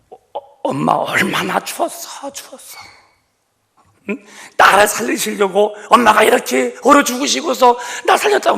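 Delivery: high, loud, tearful cry to his dead mother; weeping son calling mother. Retold or imitated. Son at the bridge crying out to his dead mother, high and loud. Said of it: "울었다는 거예요".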